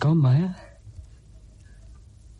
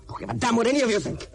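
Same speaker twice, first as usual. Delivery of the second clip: higher, faster, heated; furious at the men who doubt him; angry outburst; 8 semitones higher, faster than usual. Acted. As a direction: fling it at them all. Outburst at his mates.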